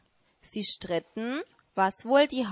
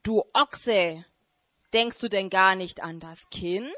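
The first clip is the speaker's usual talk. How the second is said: donkey. Acted. Donkey scolds the ox.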